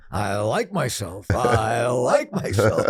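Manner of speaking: slow, deliberate mirror affirmation; self-affirmation in the mirror. Shown as a demonstration. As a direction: say it slowly to yourself like you mean it. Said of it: "what you say to yourself when Bruce W looks in the mirror".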